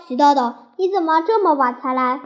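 teacher scolding a late pupil, mildly angry. Acted. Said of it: "魏老师生气地说".

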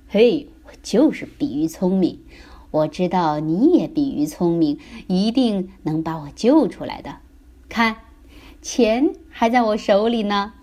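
lightly voiced proud father; boastful dad. Dad showing his child the rescued money, mildly boastful. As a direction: brag with a punchy, pleased delivery.

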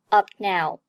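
"up now" with the p held, not popped; unreleased plosive. Shown as a demonstration. Teacher shows 失去爆破, "up now" with unreleased p. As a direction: close on the p of "up", go straight to "now". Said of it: "爆破音失去爆破".

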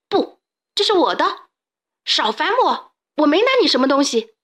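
high, fast, panicked yelling; frantic denial. A narrator's reading. Xiaopangdun screams at the ghostly pharaoh, frantic. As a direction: shove the words out while fleeing.

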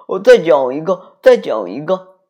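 loud eager begging; eager pleading. A narrator's reading. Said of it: "妈妈也急切地请求着".

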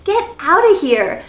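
"Get outta here" pitched high with a happy fall on "outta"; surprised delight. Shown as a demonstration. Teacher demos the happy phrase, surprised. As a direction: sound amazed and glad. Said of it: "expression of surprise, of happiness".

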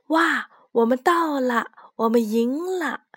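high, excited little mouse cry; excited shout. Acted. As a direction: cheer out the win. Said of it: "老鼠兴奋地大叫了起来".

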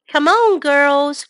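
slow, loud call to the cows; children calling the cows in. A narrator's reading. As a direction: girls calling the herd, drawn out. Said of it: "called Millie and Molly".

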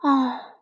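a mother's drawn-out sighed "oh". A narrator's reading. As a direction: let out a weary sigh. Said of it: "妈妈长叹了一声". (长长地叹一声)

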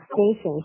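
STATION given the weight; stress on STATION. Shown as a demonstration. Teacher points out the key word, station stressed. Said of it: "station是一个重读".

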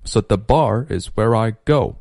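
"So the" reduced to a quick suh-duh; 弱读示范. Shown as a demonstration. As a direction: weaken "So the", land on "bar". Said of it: "so和the弱读成了so的". (So the弱读，重音落在bar)

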